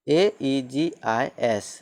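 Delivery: एईजीआईएस spelled out letter by letter, slowly; slow spelling. Shown as a demonstration. Teacher spells word for class, slow. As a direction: dictate each letter slowly. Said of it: "जैसे".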